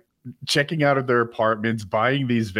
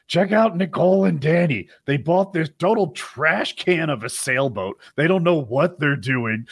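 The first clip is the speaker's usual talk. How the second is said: higher-pitched mock of a sassy critic; sassy YouTuber; 5 semitones higher than usual. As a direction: imitate a catty reviewer, pitched up. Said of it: "He sounds like a sassy gay guy".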